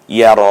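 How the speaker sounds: ইয়ার ending on a long open "raa"; full long vowel. Shown as a demonstration. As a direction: draw out the last vowel of ইয়ার. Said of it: "এভাবে পূর্ণটা উচ্চারণ করতে হয়".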